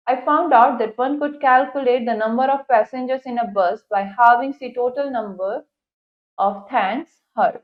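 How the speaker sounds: slow, careful English reading; textbook read-aloud. Acted. Teacher reads the English passage to students, slow read-aloud. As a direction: read it out deliberately for a class.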